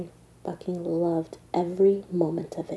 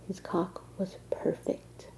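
whispering; 7 dB quieter than usual. Acted. Intimate confession to Doc.

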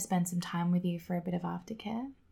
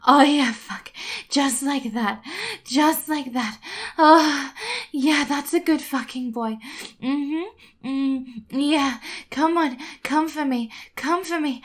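moaning; 5 semitones higher, 4 dB louder than usual. Acted. Erotic roleplay, moaning and commanding.

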